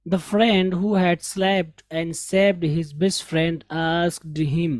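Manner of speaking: slow, careful English read-aloud; teacher reading a story aloud slowly to learners. Shown as a demonstration.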